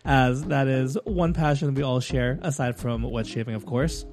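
polished, emphatic host sign-off; podcast outro read. Acted. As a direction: wrap up the show like a scripted announcer. Host reads the show's outro.

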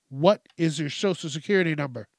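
mildly snippy, word-by-word question; snippy repeated demand. Acted. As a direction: press the question like an impatient caller. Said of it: "they start getting snippy with you".

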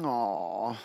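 low, soft melting "aw"; sympathetic aw. Retold or imitated. Australia forgiving Steve Smith, sympathetic. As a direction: voice a public going soft on him. Public softening toward sorry cricketer.

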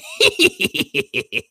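high villainous cackle; hammed-up high evil laugh. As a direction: cackle like an awakened evil being. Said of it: "I love the laugh".

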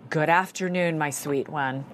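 tender greeting. Retold or imitated. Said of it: "the way he greeted her".

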